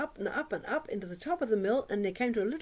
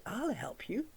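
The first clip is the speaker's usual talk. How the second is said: soft offer; 3 semitones higher, 4 dB quieter, slower than usual. Acted. Mouse offering help quietly.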